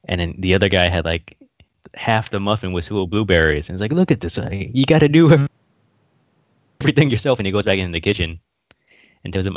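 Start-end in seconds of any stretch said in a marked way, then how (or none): 3.9-7.4 higher, exasperated boss voice; mock gangster boss. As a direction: grumble like a fussy mob boss. Acted boss complaint.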